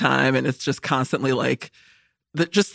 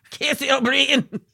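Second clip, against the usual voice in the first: put-on Irish accent; 9 semitones higher, slower than usual. Repeating name in Irish voice.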